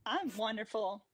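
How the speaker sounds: chipper cheerleader voice. Pretend. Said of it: "The chipper cheerleader voice".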